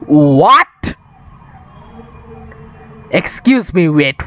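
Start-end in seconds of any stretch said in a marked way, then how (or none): 0.1-1.0 whispered shout. Real, not acted. Shocked by teammate's words.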